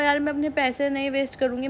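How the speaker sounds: muttered aside; quiet muttered resolve. Retold or imitated. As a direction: say it under your breath. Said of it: "फिर मैंने कहा".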